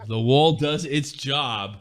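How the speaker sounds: slow mock commentary. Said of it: "He's doing an impression of Eriksen".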